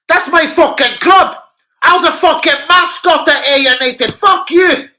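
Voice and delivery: roaring it out at full volume; shouting. Real, not acted. Fan yelling proudly about his boyhood club, furious shout. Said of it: "yelling about his old club".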